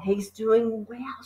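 soft, slow aside; whispering. A narrator's reading. Matilda whispering to Lavender, soft and slow. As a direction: hush it to a friend. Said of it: "she whispered to".

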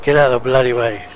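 fast, loud exasperated yell; frustrated loud outburst; annoyed shout. Real, not acted. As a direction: bark it at the one in the way. Character blocking his path.

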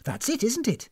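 high, pointed challenge; accusing. Acted. Guest accusing hostess of prying, pointed. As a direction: pounce on the suspicion.

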